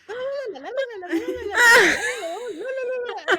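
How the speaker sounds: high, excited mock gibberish; imitated foreign chatter. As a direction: jabber like gossiping passengers. Passengers jabbering in other languages.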